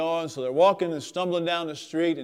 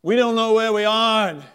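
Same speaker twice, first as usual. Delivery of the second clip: loud, high mock-worried sailor; sailor's punchline; 5 semitones higher, 7 dB louder than usual. Sailor tells his mate they are in trouble, hammed-up. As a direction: deliver the joke as a tipsy mate. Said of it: "he says".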